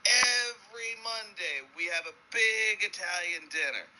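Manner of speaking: high, drawn-out sales pitch; hammed-up, slow enthusiasm; hyped-up convict. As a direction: stretch the opening word, selling it hard. Convict selling prison life in joke.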